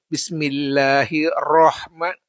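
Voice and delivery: Bismillahirrahman with rah rounded to roh; wrong pronunciation. Shown as a demonstration. Teacher showing students the rounded rah mistake. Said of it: "Rahnya ini ada yang macam ini".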